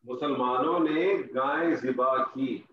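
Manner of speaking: slow, careful repeat of مسلمانوں نے گائے ذبح کی; slow dictation. Shown as a demonstration. Teacher repeating the sentence slowly for students to translate. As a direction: spell it out slowly so students catch every word. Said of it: "میں آپ سے کہتا ہوں".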